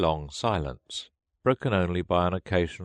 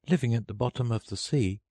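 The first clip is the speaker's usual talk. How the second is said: put-on high, light girl's voice; Alice voice; 6 semitones higher, faster than usual. A narrator's reading. Alice doubting the turtle needed washing, in a high voice. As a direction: speak up as a matter-of-fact child. Alice continues her reply.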